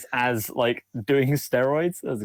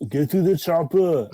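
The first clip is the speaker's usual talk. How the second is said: loud, raised action-hero holler; hearty in-character battle cry; mock shout; 4 semitones higher, 4 dB louder than usual. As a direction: yell it like a hammed-up movie line. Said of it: "Jirak shouts".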